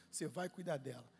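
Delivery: low, softened quoted voice; hushed divine command. Retold or imitated. Holy Spirit giving the pastor his task, hushed. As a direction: give the command low and soft.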